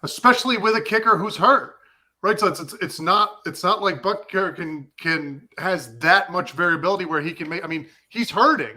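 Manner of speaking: worked up and emphatic; punchy, insistent, getting carried away; fired up. Real, not acted. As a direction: push the point with rising heat. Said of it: "I'm all fired up".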